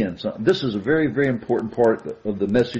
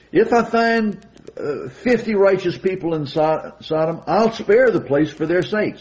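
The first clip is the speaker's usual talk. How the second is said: voice of the Lord; 6 semitones higher than usual. Retold or imitated. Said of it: "And the Lord said to Abraham".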